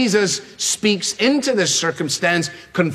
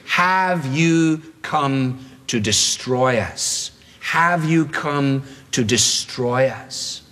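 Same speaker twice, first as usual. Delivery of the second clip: slow, menacing demon asking; demon's question; 2 semitones lower, much slower than usual. Acted. Demon confronts Jesus in a slow, menacing voice. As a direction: drag out the demon's challenge slowly. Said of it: "Now comes the question".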